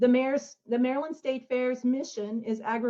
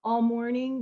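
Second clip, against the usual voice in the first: raspy whisper; 2 semitones lower than usual. Real, not acted. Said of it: "Excuse my voice".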